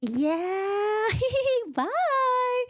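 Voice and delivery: laughing high, sheepish goodbye; awkward laugh. Retold or imitated. Lucien dodging Feyre's question: awkward laughing goodbye. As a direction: laugh it off and bolt. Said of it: "And Lucien's like".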